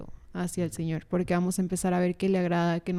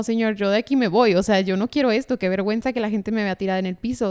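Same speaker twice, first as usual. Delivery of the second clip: loud, agitated inner plea to God; a flustered retold protest; retold panic; 5 dB louder than usual. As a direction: blurt it out in embarrassed alarm. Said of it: "yo decía como".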